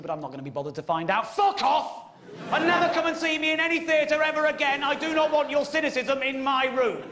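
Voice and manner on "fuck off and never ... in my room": angry heckle. Acted. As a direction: snap at the cynic in the crowd.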